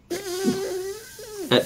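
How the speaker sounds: blowing a raspberry. Real, not acted. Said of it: "at my little raspberry".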